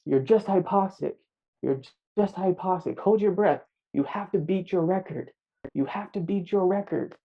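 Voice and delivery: mock-insistent yell from the back of his mind; urgent inner shout. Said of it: "the voice in the back of my head was shouting".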